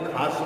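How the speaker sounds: खास said as khaash; family's mispronunciation. Retold or imitated. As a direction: end खास on sh instead of s. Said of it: "माँ बाप बड़े भाई बहन". (खास को "खाश" बोलना)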